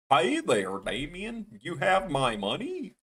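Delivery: a rough, half-hearted Goofy impression; attempted Goofy. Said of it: "I can't do a Goofy that good".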